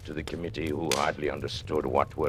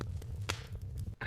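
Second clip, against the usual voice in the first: breathy, almost silent chuckle; quiet sinister laugh; 13 dB quieter than usual. Acted. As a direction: laugh softly to yourself, pleased. Villain laughs after threat.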